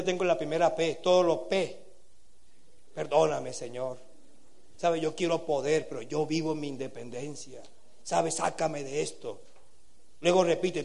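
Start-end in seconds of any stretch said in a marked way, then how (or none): 2.9-9.4 quiet sincere prayer. Shown as a demonstration.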